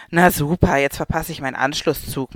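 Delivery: mild sarcastic complaint; grumbling. Acted. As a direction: moan about the missed connection. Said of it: "meckert die Handyfrau".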